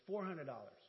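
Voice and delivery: mildly authoritative wife; with authority. Retold or imitated. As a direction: imitate her stating it firmly. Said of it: "with authority".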